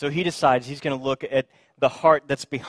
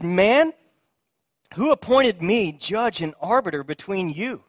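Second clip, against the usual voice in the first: exasperated Jesus; 5 semitones higher, 3 dB louder than usual. Retold or imitated.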